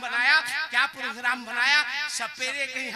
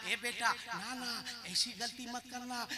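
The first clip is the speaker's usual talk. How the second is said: hushed warning; 8 dB quieter than usual. Acted. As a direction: keep it down, cautioning her son. Mother warns son in hushed tones. (माँ की धीमी चेतावनी)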